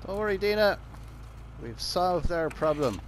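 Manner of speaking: loud, proud announcement; triumphant. Real, not acted. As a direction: boast the win to a friend. Boasting to companion Dina.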